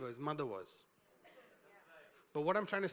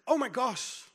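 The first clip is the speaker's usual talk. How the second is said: higher, startled oh my gosh; shocked exclamation; 4 semitones higher, 4 dB louder than usual. Retold or imitated. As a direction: gasp it out in mock surprise. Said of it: "He didn't say".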